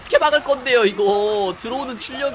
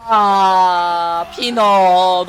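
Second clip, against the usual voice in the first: surprised gasp; 6 dB louder, much slower than usual. Real, not acted. Caster gasps at Peanut's death.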